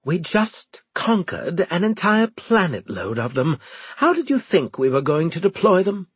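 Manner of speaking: high, tight exasperated officer; through clenched teeth. Acted. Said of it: "said between clenched teeth".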